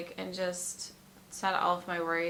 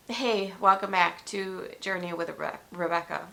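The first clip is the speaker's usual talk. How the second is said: stumbling intro. Real, not acted. Vlogger tripping over her own name in the greeting. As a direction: welcome cut off, tripping on "Rebe-". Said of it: "I can't even say my name right".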